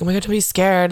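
imitating an earnest, literal-minded listener; mildly mocking sincere reassurance; taking it literally. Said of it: "people take it so literally".

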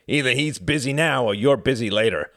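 loud, high, mocking father; harsh. A narrator's reading. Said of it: "laughed Quentin harshly".

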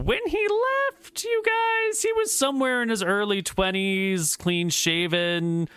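lilting dryad storyteller. Acted. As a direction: speak as the ancient tree spirit. GM voices Dryad describing Euclid.

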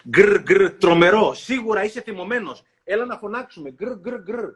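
loud bear voice, growling through it. Acted. Bear urging the boy to shout, loud growling voice. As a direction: growl and roar like an angry bear.

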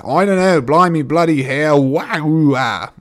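loud, high hammed-up British accent falling apart; botched British accent breaking into nonsense; muddled mock accents. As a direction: mash several accents together, loudly. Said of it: "five accents at once".

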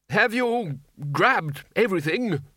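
high, slow booming demand; roaring. Acted. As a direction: bellow it at the wizards. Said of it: "roared the Arch-Chancellor".

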